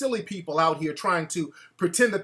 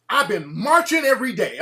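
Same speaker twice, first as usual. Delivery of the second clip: imitating her; 3 semitones higher, 4 dB louder than usual. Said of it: "this is literally her saying this".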